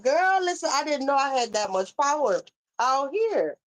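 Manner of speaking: mock amazed. Mock reply to critic.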